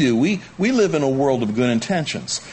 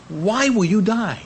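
high, slow plea; God pleading; 9 semitones higher, slower than usual. Retold or imitated. God asking Israel in Ezekiel, high and pleading. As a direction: ask it slowly, high and aching. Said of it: "he asks the question".

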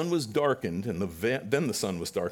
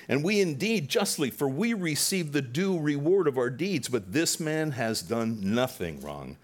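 louder, higher scolding; rebuke; 5 semitones higher, 4 dB louder than usual. Acted. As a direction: rebuke the other criminal hard. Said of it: "the other answering rebuked him".

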